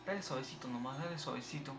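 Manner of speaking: very soft, careful voice; hushed coaxing. Real, not acted. Player easing the ball along, hushed coaxing. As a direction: urge it on barely above a hush.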